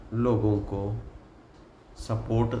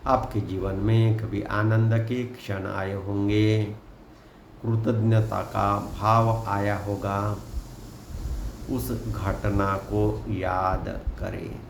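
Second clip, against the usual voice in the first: guided meditation. Acted. Guide asking listeners to close eyes and breathe deeply, in an unhurried meditation voice. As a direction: lead them gently into relaxation, phrase by phrase.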